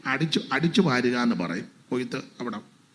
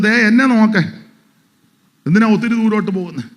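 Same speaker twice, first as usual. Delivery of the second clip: loud, high fervent sermon delivery; preaching at full force; 8 semitones higher, 8 dB louder than usual. Acted. Pastor rousing his church, loud fervent preaching. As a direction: proclaim it to the whole congregation.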